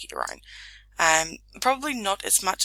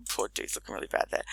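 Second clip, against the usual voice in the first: breathy words through a laugh; 5 dB quieter, faster than usual. Real, not acted. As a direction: still laughing while talking. Laughing at the ugly head shape.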